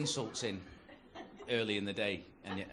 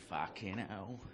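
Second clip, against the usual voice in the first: put-on cockney accent; 5 semitones lower, 8 dB quieter, much slower than usual. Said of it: "there's always some cockney".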